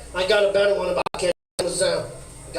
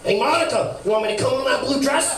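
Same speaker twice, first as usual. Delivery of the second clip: Bill Clinton; 6 semitones higher than usual. Shown as a demonstration. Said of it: "spot-on impression of Bill Clinton".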